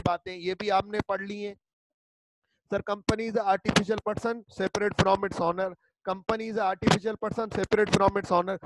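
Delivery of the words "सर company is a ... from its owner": धीमे-धीमे शब्द तोड़कर पढ़ना; slow dictation. Shown as a demonstration. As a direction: read it out slowly, word by word, for notes. Slow handout reading. (Handout से धीमी श्रुतलेख जैसी पढ़ाई)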